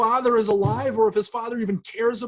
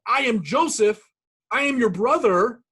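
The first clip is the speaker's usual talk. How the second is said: blurting it out, higher and louder; blurted out; 4 semitones higher, 4 dB louder than usual. Pretend. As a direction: burst out with the reveal, a bit higher and louder. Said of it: "Joseph blurts out".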